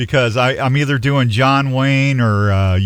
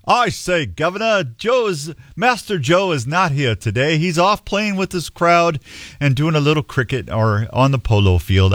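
lightly put-on English valet accent; a hint of an English butler. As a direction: play a proper valet with a rough English accent. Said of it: "on that English accent".

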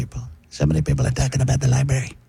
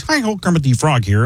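nasal frog puppet voice; pinched, nasal Muppet voice; Kermit the Frog; 2 semitones higher than usual. Acted. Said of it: "Kermit the Frog is a nasal voice".

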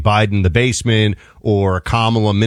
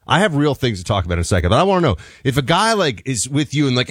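ordinary talk

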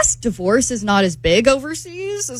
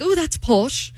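imitated British "posh"; put-on British accent; 3 semitones higher, slower than usual. Woman quoting her date's slang, British accent. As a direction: say it like a Brit, lightly. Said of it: "I like the accent".

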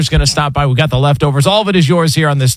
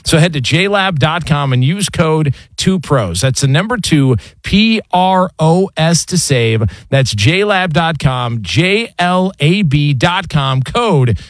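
ad read. Acted. Host reads a headphone sponsor spot to listeners, ad read. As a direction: sell the headphones like a radio spot.

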